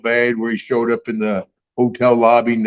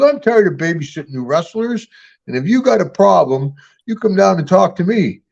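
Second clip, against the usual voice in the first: a touch of a fed-up clerk, slightly higher; mock irritated clerk; 5 semitones higher than usual. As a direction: imitate the clerk losing patience, understated. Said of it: "He goes".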